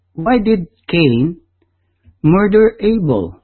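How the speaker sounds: normal talking voice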